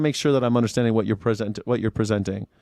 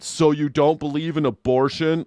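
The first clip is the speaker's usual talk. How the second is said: mock gotcha question; 3 semitones higher than usual. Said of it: "what the fuck does that mean".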